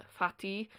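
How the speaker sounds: "Fatty" said as the Connacht Irish word, starting on f; Connacht word for potatoes. Shown as a demonstration. Teacher contrasting dialect words, Connacht pronunciation of "Fatty". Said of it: "fatty is what they use".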